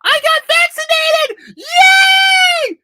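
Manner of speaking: sneering parody of a proud vaccine poster; mocking vaccine poster. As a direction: squeal it like a yapping dog showing off. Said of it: "You sound like a fucking dog".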